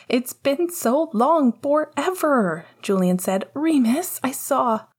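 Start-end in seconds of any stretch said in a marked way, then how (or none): 0.1-2.6 put-on high, drawn-out kid whine; excited little brother. A narrator's reading. Little brother to Remus on FaceTime, high and drawn out. 3.5-4.9 put-on high, eager child voice; excited little brother. A narrator's reading. Little brother starts telling Remus something, high and eager.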